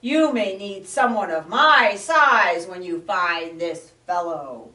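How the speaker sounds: loud, quick gruff bear voice; growling bear. Acted. Bear insists on joining the search, gruff. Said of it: "growled the bear".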